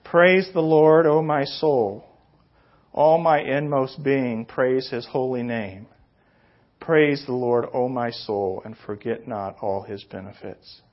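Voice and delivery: slow, solemn psalm reading; scripture reading. Acted. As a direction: read the verses slowly and reverently. Reads the psalm aloud.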